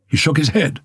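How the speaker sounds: usual speaking voice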